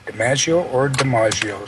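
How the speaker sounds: DiMaggio first with "a" as in "cat", then DiMaggio with "ah"; two pronunciations contrasted. Shown as a demonstration. Host offers both options, short-A DiMaggio or broad-A DiMaggio. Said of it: "you can also pronounce".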